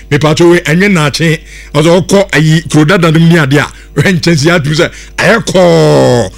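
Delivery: loud, pushy radio advert voice; hard-sell ad read. Acted.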